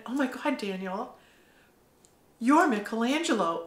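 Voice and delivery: gasping "oh my God", then the name; the truth hitting you all at once; astonished exclamation; stunned realization. Retold or imitated. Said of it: "I literally went".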